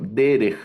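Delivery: Derech as DE-rej, falling after the stress; stress on the first syllable. Shown as a demonstration. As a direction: punch the DE of Derech. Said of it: "esa es la forma de leerlo". (Derech con acento en la primera sílaba)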